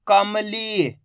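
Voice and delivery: "कमली" joined up, final ee held long; blended syllables. Shown as a demonstration. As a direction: blend "कमली" and stretch its last vowel. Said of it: "इनको पढ़ रहा हूँ".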